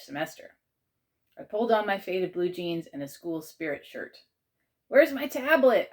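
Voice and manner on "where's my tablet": high, loud, drawn-out call; yelled question. A narrator's reading. Child hunting for a lost tablet, yelling. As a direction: yell it across the house. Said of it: "I yelled".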